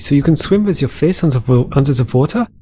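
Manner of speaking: playful put-on accent, V for W; put-on foreign accent. Gamer musing on a snorkel activity, in a put-on accent. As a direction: slip into a silly mock accent. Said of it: "I don't know why I'm using this accent".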